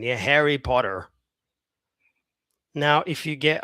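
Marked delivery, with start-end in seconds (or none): 0.2-1.1 American "Harry Potter", ending on a sounded R; American accent. Shown as a demonstration. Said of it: "Very American".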